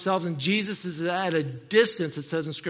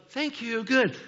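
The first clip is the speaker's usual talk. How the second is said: relieved thanks; 5 semitones higher, slower than usual. Retold or imitated. Relieved driver, slow car turns off.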